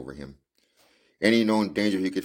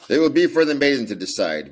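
higher, louder gloating delight; rejoicing; 7 semitones higher, 6 dB louder than usual. A narrator's reading. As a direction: crow it smugly. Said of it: "rejoiced the young Drebber".

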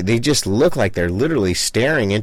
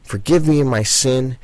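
modelled prayer. Shown as a demonstration. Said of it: "get on your hands and knees and say".

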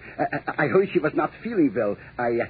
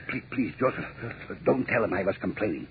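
pleading; 5 semitones lower, 6 dB quieter than usual. Acted. Begging Joseph not to tell.

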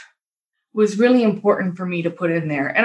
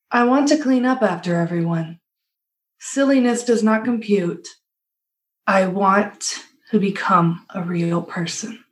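lightly voiced robot housekeeper; a hint of a flat robot. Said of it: "the voice is very good".

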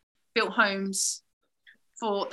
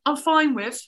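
louder, higher lively talk; animated; 5 semitones higher, 6 dB louder than usual. Real, not acted. Telling her friend which whisky she struggles with, louder and higher. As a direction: get worked up about whisky.

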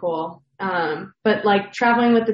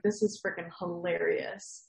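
laughing; 10 dB quieter than usual. Retold or imitated. Retold first reaction to meme.

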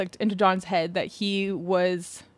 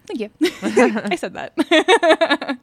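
laughing boast; 5 semitones higher, 4 dB louder, much slower than usual. Real, not acted. Proudly taking credit, laughing.

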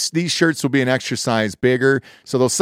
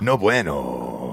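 mock disappointment; 10 semitones lower, 4 dB quieter, much slower than usual.

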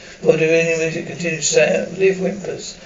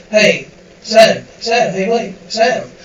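alarmed calling; 5 semitones higher, 5 dB louder than usual. Acted. Trying to wake unconscious Sam.

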